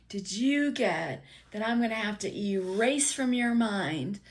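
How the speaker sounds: exasperated dad. Retold or imitated. Dad scolding son for sneaking to the art store, loud and exasperated. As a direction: rant at the kid like a fed-up dad.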